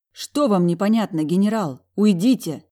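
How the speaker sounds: loud furious order to leave; angry cry to get out; angry demand. Acted. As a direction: drive him out with a shout. Heroine orders him out.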